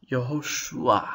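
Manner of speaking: "Yehoshua" ending in a glide from shu to a; sneaked-in vowel. Shown as a demonstration. Teacher shows the patach between shorek and ayin, sneaked-in vowel. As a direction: repeat "Yehoshua" carefully, a sneaking in after the u. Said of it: "a little patach that sneaks in".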